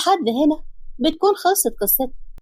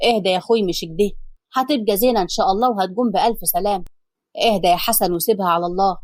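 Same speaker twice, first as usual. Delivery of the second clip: lower, lightly voiced calming man; calm your anxious brother, lower; a hint of a steady older brother; brother's voice; 5 semitones lower than usual. Narrator voices Youssef.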